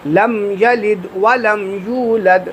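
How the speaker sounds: slow chanted لم یلد ولم یولد; slowly. Shown as a demonstration. Teacher shows the proper unhurried recitation. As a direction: take it slowly and calmly. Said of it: "آرام آرام سے".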